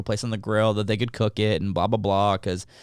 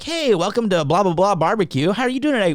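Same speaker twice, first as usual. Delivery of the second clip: mock server greeting; 8 semitones higher than usual. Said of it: "They're like".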